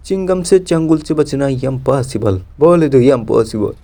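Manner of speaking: a hint of the cocky Chingam inspector; Chingam catchphrase. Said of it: "আরে চিংগাম sir". (চিংগামের ঢঙে নিচু ধীর সংলাপ)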